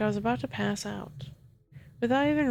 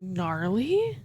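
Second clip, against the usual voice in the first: stupefied; 4 dB louder than usual. A narrator's reading. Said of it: "stupefied that she could be so calm".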